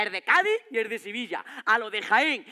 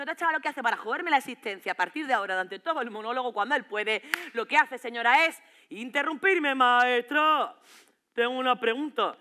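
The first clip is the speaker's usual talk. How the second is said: put-on teen heckler. Comic voicing a heckling teen.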